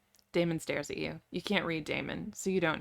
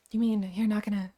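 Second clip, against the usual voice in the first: higher-pitched, tentative question; hopeful, voice cracking; 4 semitones higher, 4 dB louder than usual. A narrator's reading. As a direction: ask with fragile hope, lightly acted. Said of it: "you ask him hopefully, your voice cracking".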